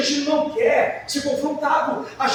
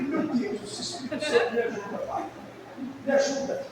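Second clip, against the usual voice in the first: laughing mock prayer; 6 dB quieter than usual. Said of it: "Aí eu falei".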